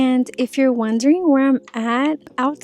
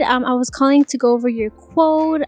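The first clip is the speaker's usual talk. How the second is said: enticing voicemail. Shown as a demonstration. Saleswoman leaving a customer a voicemail, enticing. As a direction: coax them into calling back. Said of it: "I leave a really enticing voicemail too with my voice".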